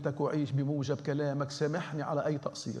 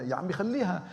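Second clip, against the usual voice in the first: dismissive wave-off; 5 semitones higher, 4 dB louder than usual. Real, not acted. Mocking false humility.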